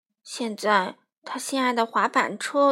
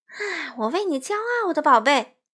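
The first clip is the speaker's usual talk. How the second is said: smiling pride; 5 semitones higher, 3 dB louder than usual. Acted. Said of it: "欢妈妈笑着".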